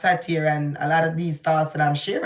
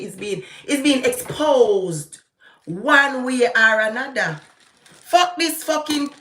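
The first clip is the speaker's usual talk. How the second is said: heated, higher-pitched ranting; angry rant; 5 semitones higher than usual. Real, not acted. Vlogger ranting to viewers about Mark Golding, heated. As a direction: vent it, barely holding back. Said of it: "Forgive me for that rant that I just had".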